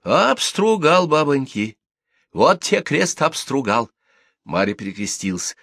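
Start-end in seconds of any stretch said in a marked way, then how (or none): 0.0-3.9 high, drawn-out gossip's oath; excited swearing. A narrator's reading. Gossip swears her news is true, excited. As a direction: stretch the juicy word and swear to it.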